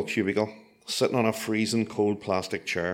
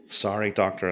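sheepish; 2 semitones lower than usual. Retold or imitated. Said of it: "I said sheepishly".

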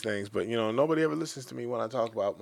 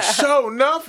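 higher, louder mock shout; imitating a yell; 12 semitones higher, 7 dB louder, much slower than usual. Imitating the coworker yelling at work, higher mock shout. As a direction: bark it out like the coworker. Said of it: "this motherfucker gets".

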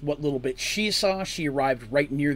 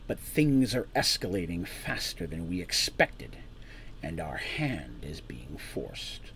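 cold warning, no feeling; quietly dangerous man; 2 semitones lower than usual. Acted. Man warns the party things escalate, quietly menacing. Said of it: "a hint of dangerousness in his voice".

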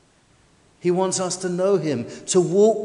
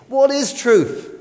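high, slow, scornful Pilate asking what is truth; cynical question; 6 semitones higher, 5 dB louder, slower than usual. Retold or imitated. Pilate sneering at Jesus, slow and high. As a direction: let the doubt drip off every word. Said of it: "the great cynic".

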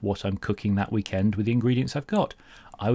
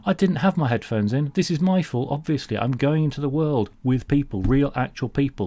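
sarcastic; 5 semitones higher than usual. Acted. Sarcastic self-blame.

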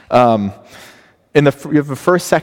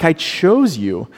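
"chose" stretched slow and raised; pleading emphasis; 5 semitones higher, slower than usual. Retold or imitated. Preacher voicing God reminding his people, raised and slow. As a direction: lean on "chose" with hurt disbelief. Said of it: "He's saying".

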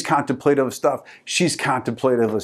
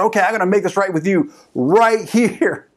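lightly acted, higher-pitched hero declaration; determined movie hero; 6 semitones higher than usual. Husband confronts his wife before the group, mildly dramatic. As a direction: announce it like a resolute film husband.

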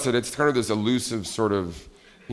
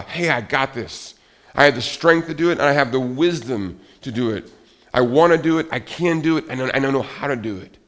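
eager, rising and louder in places; upbeat self-talk; 3 semitones higher, 5 dB louder than usual. Retold or imitated. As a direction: sound fired up and ready. Inner voice of a motivated person.

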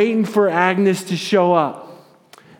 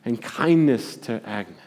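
prayer. Retold or imitated. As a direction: pray it gently, fading down. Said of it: "he begins to pray for Agnes".

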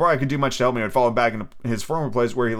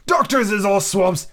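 put-on slow, raised old seaman grumbling; a sick old sailor cursing the doctor; lightly voiced weak old captain cursing; feeble but hearty curse; 9 semitones higher, 4 dB louder, slower than usual. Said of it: "cursing the doctor in a feeble voice but heartily".

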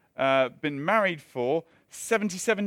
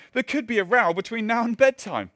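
a higher, louder Northern Irish lilt on her words; mock Northern Irish accent; 6 semitones higher, 5 dB louder than usual. Pastor redoes the old wife's quote in a Northern Irish accent. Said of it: "That needs to be in Irish, doesn't it?".

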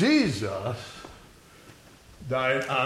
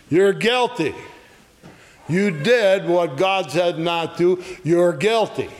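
raised accusing voice; crying out; 3 semitones higher than usual. Acted. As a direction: call out the charge, pitched up a little. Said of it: "big megaphone that's crying out".

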